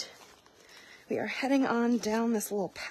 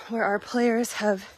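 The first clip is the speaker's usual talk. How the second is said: out of breath; 2 semitones higher, 4 dB louder than usual. Real, not acted. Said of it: "oh my God, I'm so out of breath".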